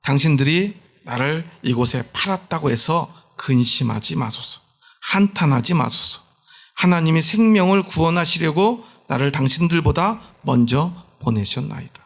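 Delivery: slow, solemn reading of the verse; preacher reads scripture slowly. Shown as a demonstration. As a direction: read the verse aloud with weight. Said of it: "봉독합니다".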